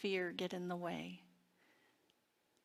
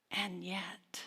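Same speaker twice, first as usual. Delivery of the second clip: whispered; 4 dB quieter than usual. Real, not acted. Hushed pause in a sermon.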